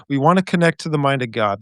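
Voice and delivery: put-on quick New York Jewish accent.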